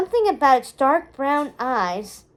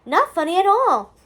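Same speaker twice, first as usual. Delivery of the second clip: "Not funny at all" bright and high, falling on "all", barely holding in a laugh; mother humouring her scowling daughter, mock-serious; suppressed mirth; 6 semitones higher, 4 dB louder than usual. A narrator's reading. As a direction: agree while swallowing a giggle. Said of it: "trying to swallow down her mirth".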